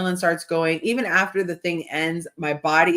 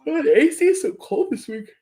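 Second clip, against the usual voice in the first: higher, louder startled complaint; sudden aside; 8 semitones higher, 4 dB louder than usual. Real, not acted. Host interrupting herself about the cold, startled. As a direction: blurt it out shivering.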